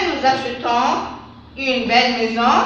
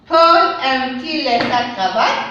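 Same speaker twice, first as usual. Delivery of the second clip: "cravate" rising at the end as a question; question tune; 4 dB louder than usual. Shown as a demonstration. Teacher models a question, rising tune on "cravate". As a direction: ask it, lift the last word. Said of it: "Phrase interrogative".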